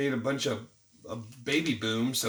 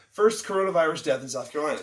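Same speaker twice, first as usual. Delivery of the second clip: 1 headline hype; 4 dB louder, faster than usual. Shown as a demonstration. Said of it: "That's to hook you, to get you to buy the paper".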